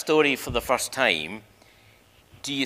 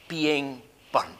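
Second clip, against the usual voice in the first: hushed whisper; 3 dB quieter than usual. Real, not acted. Dramatic image of burning scroll.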